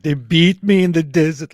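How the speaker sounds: loud, high dramatic Irish wail. Shown as a demonstration. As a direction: say it like a big tragedy. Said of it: "It has to be more dramatic".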